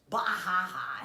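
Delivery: loud bursting ha ha; scoffing laugh. Real, not acted. Coach laughing off a viewer's question, loud bursting ha.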